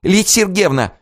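high call from behind. A narrator's reading. Zina calls out to the princess from behind, high. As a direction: call her name. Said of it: "крикнула сзади Зина".

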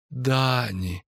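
name drawn out gently; tender. A narrator's reading. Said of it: "ласково сказала Паветта". (ласково, нежно)

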